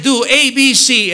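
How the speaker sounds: loud, high and forceful; emphatic command. Retold or imitated. Preacher relaying God's plain order to the people, loud emphatic command.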